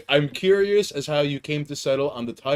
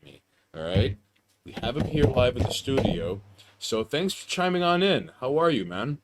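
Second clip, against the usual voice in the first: hammed-up radio host introduction; radio host intro; 3 dB quieter than usual. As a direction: announce the guest like a late-night DJ. Host introduces guest on stream.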